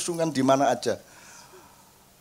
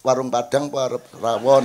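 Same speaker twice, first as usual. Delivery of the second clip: soft coaxing; 6 semitones lower than usual. Retold or imitated. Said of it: "saya gituin".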